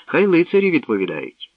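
high, lightly smiling voice; smiling princess. A narrator's reading. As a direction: airily hand the question on with a smile. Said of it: "осміхнулася царівна".

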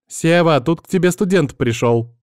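ringing call into the back. Retold or imitated. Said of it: "звонкий женский голос, который звал лекаря". (звонкий оклик)

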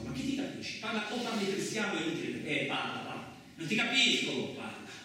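high, sharp bursts of frustration; man can't understand the stranger, exasperated. Acted. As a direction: demand he speak properly.

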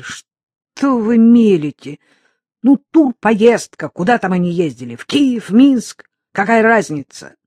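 high and loud, frantic reproach; desperate shout. Acted. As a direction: hurl it at him in anguish. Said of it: "Она плакала".

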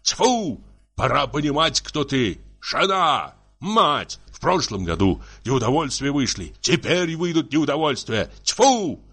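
high, exasperated scolding; heated husband's tirade; angry shouting. Acted. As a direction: order her out, then rant in disgust. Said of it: "Бугров помолчал и крикнул".

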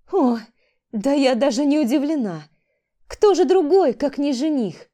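громко и высоко, на срыве; истеричный крик, голос взлетает; истеричный вопль. Acted. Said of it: "Лера выдала истеричный вопль". (Валерия истерично кричит, увидев жениха сестры)

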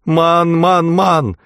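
high, drawn-out plea; desperate pleading. A narrator's reading. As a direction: beg for your life, pitched high. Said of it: "взмолился Эрум". (отчаянная мольба высоким голосом)

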